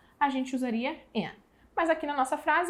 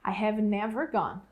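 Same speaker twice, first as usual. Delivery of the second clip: I have never gone, slow, never stressed; frase modelo, ênfase em never; model sentence; 3 semitones lower than usual. Shown as a demonstration. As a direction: say it slowly, leaning on never. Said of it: "teacher models correct word order".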